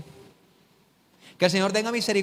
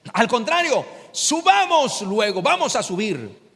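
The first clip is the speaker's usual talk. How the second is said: Caleb rallying; 3 semitones higher, slower than usual. Retold or imitated. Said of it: "Mira lo que dice Caleb".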